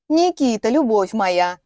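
breathy cutesy giggly; lightly mocking lovesick sister; squeaky fake voice. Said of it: "наигранным писклявым голосом".

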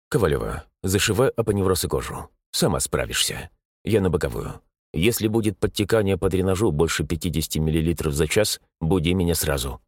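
a hint of a stern old surgeon; dry curt old surgeon. Surgeon gives orders to assistant.

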